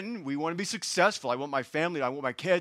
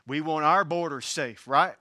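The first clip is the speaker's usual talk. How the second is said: Southern slang. Real, not acted. Preacher telling the congregation what we want, slipping into Southern slang. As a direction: slip into a Southern twang. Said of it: "say that with such a southern slang".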